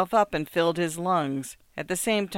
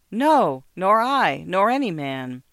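louder, pressing denial; forceful denial; 3 semitones higher, 6 dB louder, slower than usual. A narrator's reading. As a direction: push each "nor" harder. Markheim's bitter outburst at mirror.

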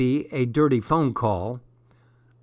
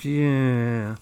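long, level, drawn-out noise; wordless-sounding yeah. A narrator's reading. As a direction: drag out one level sound in reply. Lost for words at dad's emotion.

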